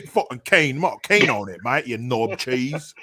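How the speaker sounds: hammed-up British bloke; put-on British voice; mock British accent. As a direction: parody British slang in accent. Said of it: "these foreign words".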